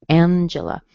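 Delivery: "Angela" as AN-juh-luh; two weak uh vowels after AN in "Angela"; Angela with schwa. Shown as a demonstration. Teacher showing the schwa, reduced vowels in "Angela". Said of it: "You hear a schwa".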